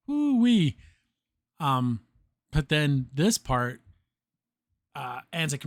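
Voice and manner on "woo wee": high gleeful woo-wee; excited whoop at the destruction; amazed whoop. Real, not acted. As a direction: let out an impressed hoot. Awed reaction to vaporized tower.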